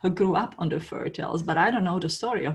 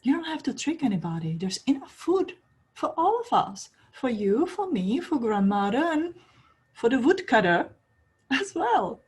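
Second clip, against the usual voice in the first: higher, bright generous offer of food; lightly voiced girl welcoming the wolf; kind invitation; 6 semitones higher than usual. Red Riding Hood inviting the wolf.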